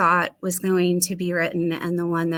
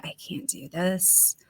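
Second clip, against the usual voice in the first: whispered; 6 dB quieter than usual. Retold or imitated. Retold despair, whispered.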